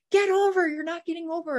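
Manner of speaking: high, pushing retort; imitating his angry demand. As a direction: snap it back at the driver. Boyfriend retold arguing in car.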